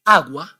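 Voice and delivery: agua with the u said, AH-gwah; Spanish agua. Shown as a demonstration. Spanish teacher modelling agua with the u said. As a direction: say agua sounding the u as a w glide. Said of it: "How do you pronounce these two words".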